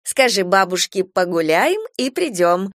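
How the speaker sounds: reassuring. Acted. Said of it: "успокаивает её тётя".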